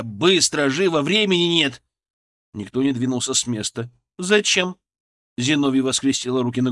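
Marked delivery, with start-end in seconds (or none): 0.0-1.8 loud, raised, pressing command; urgent orders. A narrator's reading. Doctor to staff with no time left, urgent orders. 4.2-4.8 contemptuous. A narrator's reading. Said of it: "исказилось гримасой презрения".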